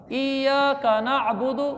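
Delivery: slow recitation with doubled y; correct recitation. Shown as a demonstration. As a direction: hold the shadda while reciting. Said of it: "ये के ऊपर शद पढ़ना ज़रूरी है". (शद के साथ धीमी तिलावत)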